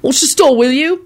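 casual calling-out; called over shoulder. A narrator's reading. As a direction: toss a request back while leaving. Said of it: "he called over his shoulder".

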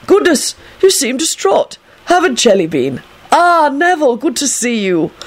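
high, airy greeting; pleasantly surprised. A narrator's reading. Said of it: "an especially pleasant surprise".

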